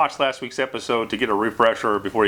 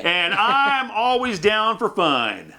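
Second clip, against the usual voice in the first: goofy high voice; 7 semitones higher, much slower than usual. Pretend. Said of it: "'cause he's nuts".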